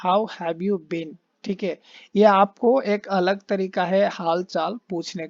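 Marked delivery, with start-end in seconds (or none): 0.1-1.2 slow read. Shown as a demonstration. Teacher reads slowly.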